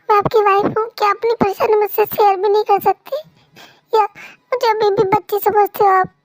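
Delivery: a wife sulking after being scolded, voice up and pressing; hurt young wife. Acted.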